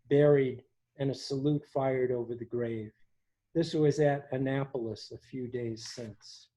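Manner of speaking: measured, earnest reading of a journal entry; reading aloud. Acted. Host reading Whitman's hospital journal to the gathering, measured and earnest. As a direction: read it to the audience like a remembered diary.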